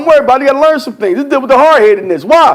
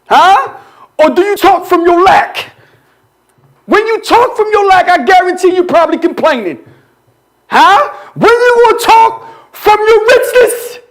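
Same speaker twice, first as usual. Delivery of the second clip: preacher pressing with a raised pitch; building sermon; 5 semitones higher than usual. Real, not acted. Preacher asking when they will talk from richness, insistent preaching. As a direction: challenge the congregation, stretching the last question.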